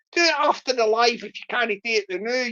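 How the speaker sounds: quick Scots phrasing, "now" as "noo"; lightly put-on Scottish accent. Says it Scots, then standard.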